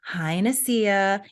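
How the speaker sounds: slow, drawn-out sing-song hello; realtor's greeting. Retold or imitated. Realtor Beth calling her, a slow, drawn-out hello. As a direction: stretch the greeting out like a chirpy realtor. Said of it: "in the same tone, in the same voice".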